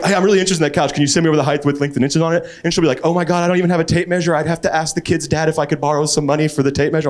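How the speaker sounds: a busy mother apologizing about the tape measure; a hint of a frazzled mother; single mom voice.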